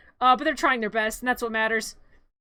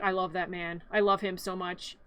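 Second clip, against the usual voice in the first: dreamy lovestruck sigh; 7 semitones lower, 8 dB quieter than usual. Retold or imitated. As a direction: lower and softer, a swooning murmur. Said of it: "Sally's like".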